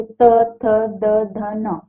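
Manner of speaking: "त, थ, द, ध, न" with the tongue on the teeth; dental consonants. Shown as a demonstration. Teacher to students, sounding the dental row "त, थ, द, ध, न". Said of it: "आप इसको बोल के देखिए".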